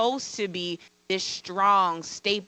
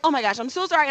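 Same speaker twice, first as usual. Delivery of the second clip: higher-pitched retold apology; extremely apologetic; 5 semitones higher, 3 dB louder, faster than usual. Teacher wiping tears before superiors, mock extremely apologetic. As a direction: imitate yourself over-apologizing. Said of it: "I kept being extremely apologetic".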